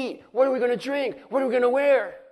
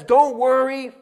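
voicing God; 5 dB louder than usual.

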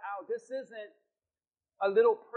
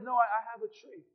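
sheepish answer. Acted. Moses's sheepish answer to angry crowd.

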